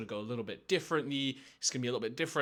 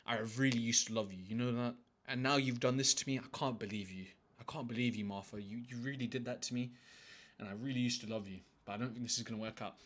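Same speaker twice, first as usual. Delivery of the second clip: softer, lowered voice of wounded disbelief, sinking on "Martha"; mock hurt breakup; 5 dB quieter than usual. Man acts out leaving Martha, quiet mock hurt. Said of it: "If you say it just like that".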